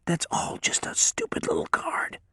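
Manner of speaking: unvoiced, cowed whisper. A narrator's reading. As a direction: barely breathe it, beaten. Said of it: "he whispered".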